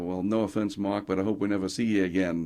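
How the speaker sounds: light imitation of a New Jersey accent; governor's New Jersey accent. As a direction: quote him with a hint of New Jersey accent. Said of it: "he said in that accent".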